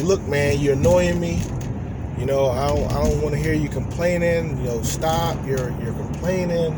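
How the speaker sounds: mildly fed up, pushing back; mock irritated complaint; irritated snap. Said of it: "I was like".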